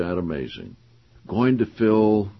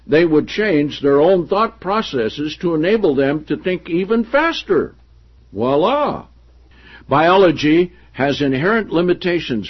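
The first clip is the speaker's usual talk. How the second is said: projected, deliberate reading of a book; emphatic read-aloud; 5 semitones higher, 6 dB louder than usual. Acted. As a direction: read the passage out to the room with emphasis. Reads book passage aloud.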